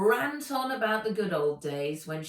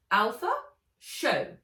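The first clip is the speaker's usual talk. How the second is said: loud, curt order to the bot; louder domineering command; Ivy's command; 4 semitones higher, 6 dB louder than usual. Acted. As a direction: snap a command at the machine. Ivy commands beetle bot.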